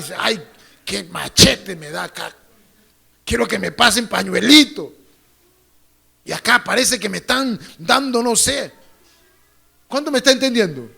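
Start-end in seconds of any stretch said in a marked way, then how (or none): 0.2-8.7 hammed-up emotional church member; lightly acted hypocrite; mock moved congregant. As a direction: fake being touched by the word. Mocking hypocrite being moved.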